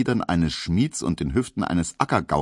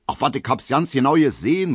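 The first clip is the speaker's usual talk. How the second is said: calling soldier; 7 semitones higher, 4 dB louder than usual. Acted. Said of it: "ruft ein Soldat".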